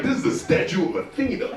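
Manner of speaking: high, loud ranting guide; aggressive tour guide. Retold or imitated. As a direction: boast about the loot, building to a yell. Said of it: "You're like".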